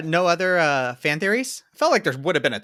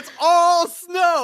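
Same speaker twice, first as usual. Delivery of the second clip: high, very slow, drawn-out answer; deadpan Legolas; 13 semitones higher, 5 dB louder, much slower than usual. Pretend. Legolas answering Aragorn, high and drawn out. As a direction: stretch the obvious answer out. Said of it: "And then he's gonna be like".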